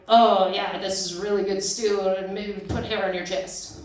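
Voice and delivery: imitating grandpa praising his stew, barely voiced; Tennessee grandpa. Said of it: "My grandfather sounded like".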